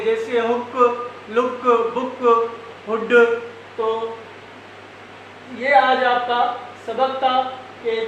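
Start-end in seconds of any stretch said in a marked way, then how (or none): 0.4-3.1 हुक, लुक, बुक, हुड each with a short oo; short vowel demo. Shown as a demonstration. Teacher gives examples of short double O, vowel cut short. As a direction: keep the vowel brief in हुक, लुक, बुक, हुड, one word at a time. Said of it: "आप इसको short पढ़ेंगे".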